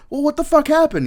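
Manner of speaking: very high, loud disbelieving squawk; baffled first sergeant. Retold or imitated. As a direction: shriek it in shocked disbelief. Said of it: "And it's just like".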